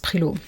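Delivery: Prilot pronounced as a French name, throaty r; French pronunciation. Shown as a demonstration. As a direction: give Prilot its French sound. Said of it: "pretty sure it's pronounced".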